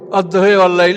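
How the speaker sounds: অদ্দোহে অল্লাইল with "he" closing the first word; dialect "e" ending. Shown as a demonstration. Lecturer repeating the tribal variant, অদ্দোহে with final "e". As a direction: say "he", not "haa", in অদ্দোহে অল্লাইল. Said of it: "এটাকে কোনো জাতি পড়তো অদ্দোহে".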